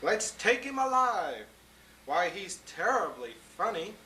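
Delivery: excited hunters. Acted. Hunters amazed at the elephant, excited exclaiming. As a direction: gush with amazement and greed. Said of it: "they all shouted".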